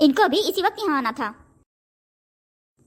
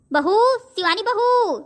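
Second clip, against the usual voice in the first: drawn-out, high call across the house; mother-in-law slowly calling her daughter-in-law from another room; 5 semitones higher, slower than usual. Acted. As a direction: stretch the name slowly to reach the next room. Mother-in-law calls daughter-in-law from afar.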